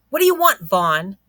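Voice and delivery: mock exasperated. Reading mother's retold question aloud.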